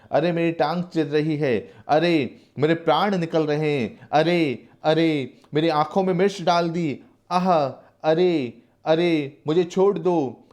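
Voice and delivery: high, slow pained wailing pleas; agonized pleading. Acted. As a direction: beg the torturers to stop, in agony. Prisoner begs under torture. (मिर्च की यातना सहते कैदी की धीमी, ऊँची, दर्द भरी गुहार)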